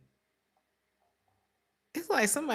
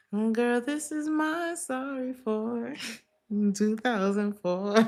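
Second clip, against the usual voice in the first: sassy mock apology; 6 semitones higher than usual. Mimicking the other person's excuse.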